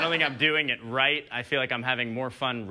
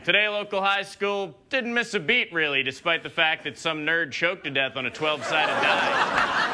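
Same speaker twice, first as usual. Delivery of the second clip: a hint of a breezy newscaster, higher; mock news anchor; 4 semitones higher than usual. Comic parodying an anchor on a dead student. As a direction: deliver the tragedy like light news. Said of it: "what would that news report sound like".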